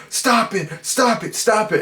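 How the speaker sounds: high, strained mock scream of Stop it; imitating a scream. Reviewer imitating the hero's scream at the ending, mock yell. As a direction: replay a man's panicked cry of Stop it. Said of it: "Dan Chalice is just screaming".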